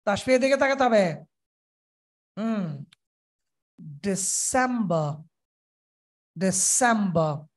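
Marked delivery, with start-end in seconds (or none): 3.8-7.5 slow ডিসেম্বর leaning on সেম; stress on সেম. Shown as a demonstration. Teacher models stressed সেম. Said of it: "সেম জোরে হবে".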